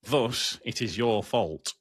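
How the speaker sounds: put-on slipping into a Yorkshire accent; officious complaint with a bit of Yorkshire. Company official blaming the driver, in a Yorkshire accent. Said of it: "I did go a little bit Yorkshire".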